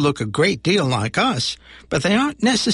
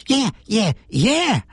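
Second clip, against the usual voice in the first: monster voice; 6 semitones higher, slower than usual. Acted. Monster's catchphrase agreeing.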